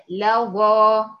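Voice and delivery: لظى with a light thin lam, loud; لظى said loud and clear with a thin lam; correct pronunciation. Shown as a demonstration. Teacher modelling the correct لظى. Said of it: "أمال أقول إيه؟".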